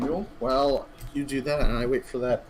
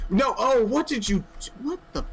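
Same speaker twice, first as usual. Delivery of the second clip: surprised; 9 semitones higher, 4 dB louder than usual. Real, not acted. Sees the model break unexpectedly.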